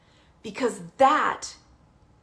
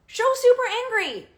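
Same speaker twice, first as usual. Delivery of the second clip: much higher, fast mock anger; mock angry demo; 13 semitones higher, faster than usual. Shown as a demonstration. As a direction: show them what super angry sounds like. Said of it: "show super angry on your face".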